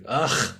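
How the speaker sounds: imitated "ugh" of contempt; mock disgusted groan. Host imitating shopkeepers asked for help, mock disgusted groan. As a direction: groan like a put-upon shop worker. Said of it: "they're just like".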